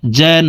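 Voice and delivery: "জান" with the final n hummed long through the nose; ghunnah. Shown as a demonstration. Teacher demonstrating ghunnah on doubled nun, "জান" with long nasal n. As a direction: hold the n of "জান" in a sustained nasal hum. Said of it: "তিন second পরিমাণ গুন্নাহ করে পড়ব".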